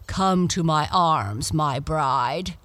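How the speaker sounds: slow, commanding Death; grim reaper voice. Acted. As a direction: claim your bride as Death. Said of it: "he cried".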